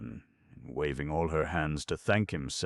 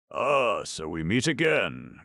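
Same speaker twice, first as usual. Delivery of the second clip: put-on grim goat girl cry; 6 semitones higher, 5 dB louder than usual. A narrator's reading. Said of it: "cried Handy".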